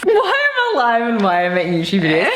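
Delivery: laughing. Real, not acted. Repeats friend's line laughing.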